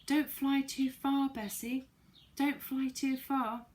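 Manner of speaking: high, loud, slow call upward; worried call to friend flying away. Acted. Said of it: "Fanny called out to her".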